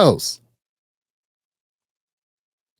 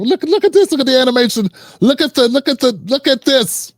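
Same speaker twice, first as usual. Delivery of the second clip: mocking excitement; 5 semitones higher than usual. Real, not acted. Mocking the mayor's animation.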